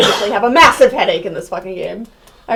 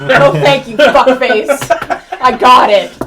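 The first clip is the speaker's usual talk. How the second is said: mock rude refusal; 7 dB louder, slower than usual.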